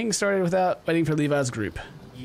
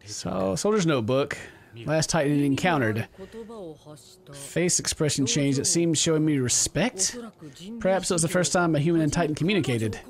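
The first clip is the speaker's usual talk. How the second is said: reading aloud; 2 semitones lower, 4 dB quieter than usual. Acted. Player reading a soldier's notebook aloud, measured. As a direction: read it out in a lowered voice. Reads game text aloud.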